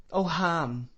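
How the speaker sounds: high, pitiful weeping cry. Acted. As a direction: cry out his name through tears. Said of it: "still weeping pitifully".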